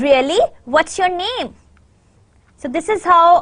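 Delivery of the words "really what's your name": questioning "really", then higher "what's your name"; speaker's attitude. Shown as a demonstration. Teacher showing attitude through intonation, questioning. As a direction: query it with marked intonation. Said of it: "can also indicate the speaker's attitude".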